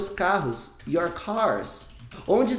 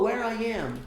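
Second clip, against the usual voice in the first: "Where I am?" as a wrong learner question, rising pitch; mock wrong question; 4 semitones higher, slower than usual. Shown as a demonstration. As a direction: play the learner's error. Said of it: "Não".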